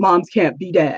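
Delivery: put-on voice of a woman. Quoting what she said about moms and dads, imitating her voice. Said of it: "I'm trying to do her voice".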